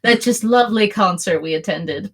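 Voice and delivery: understated sarcasm; a touch of sarcasm; sarcastic. Acted. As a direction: say it with a dry edge. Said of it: "you could hear the sarcasm in her voice".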